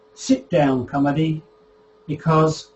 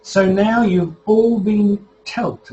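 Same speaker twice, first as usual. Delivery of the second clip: mock telling-off; 5 semitones higher, 5 dB louder, slower than usual. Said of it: "as they say".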